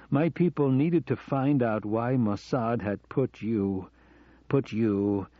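slow, slurred "my people", "put you" repeated; words dragging as sleep takes him; drowsy slurring. Acted. Drugged man losing his words to Hannah, slow and slurred. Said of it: "finding it difficult to remain coherent".

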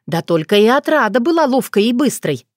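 ordinary delivery, nothing marked

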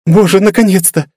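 high, bright cry of relief; voiced as an overjoyed girl; relieved girl's cry. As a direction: burst out in joyful relief. Girl's relieved outburst at reunion.

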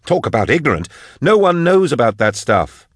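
high, urgent, angry tirade; yelling. A narrator's reading. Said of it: "Drusha yelled at the cage".

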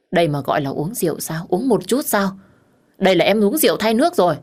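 quick, incredulous scolding, rising as it goes; exasperated chiding. Acted. Man chiding drunk woman over her drinking, exasperated. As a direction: scold with mounting disbelief.

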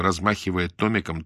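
ordinary delivery, nothing marked

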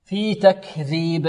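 very slow, breath flowing after the k of تكذيب; whispered-release kaf. Shown as a demonstration. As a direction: let air escape on the kaf in تكذيب. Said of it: "الكاف هنا مهموسة". (همس الكاف في تكذيب)

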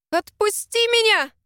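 high, loud panicked shout. A narrator's reading. Heroine shouts at the Alpha carrying her, high and loud. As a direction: yell to be let go. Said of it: "закричала я".

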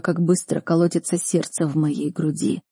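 ordinary delivery, nothing marked

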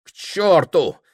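burst out. A narrator's reading. Prokhor cursing to himself, loud outburst. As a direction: fling the curse out aloud. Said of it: "говорил он сам себе".

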